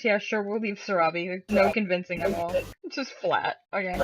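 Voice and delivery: flat, unconvinced, droning; monotone voice. Shown as a demonstration. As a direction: say it with zero conviction. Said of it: "Monotone voice".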